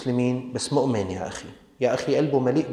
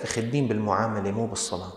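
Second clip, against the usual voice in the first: fast, softer offhand excuse; mock excuse maker; 3 semitones lower, 4 dB quieter, faster than usual. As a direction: brush it off smugly. Mocking a dismissive excuse-maker. (تقليد ساخر لمن يترك الصلاة)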